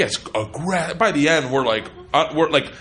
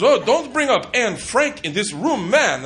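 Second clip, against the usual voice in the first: mildly indignant guy, pitched up; imitated annoyance; 3 semitones higher than usual. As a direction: act out a touchy performer objecting. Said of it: "pisses this guy off".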